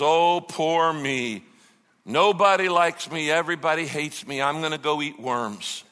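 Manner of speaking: hammed-up woe-is-me, words stretched out; self-pitying complaint. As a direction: complain like you're throwing a pity party. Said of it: "he complained to the Lord".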